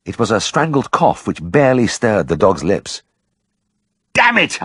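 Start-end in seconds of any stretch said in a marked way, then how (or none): 4.1-4.6 shouted curse. Acted. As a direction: shout it out in desperation. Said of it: "I shouted".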